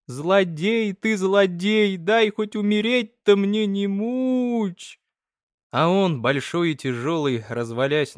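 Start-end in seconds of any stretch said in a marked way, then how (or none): 0.1-1.2 higher, slow, drawn-out hoarse cry; old mother to her husband, slow wheezing reproach. Acted. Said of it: "хрипит". 1.2-2.0 higher, louder rasping outburst; mother cursing her husband, louder rasping cry; wheezing cry. Acted. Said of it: "хрипит". 2.0-5.0 put-on high, pleading rasp of a sick old woman; dying mother begging her husband, high hoarse plea. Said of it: "хрипит".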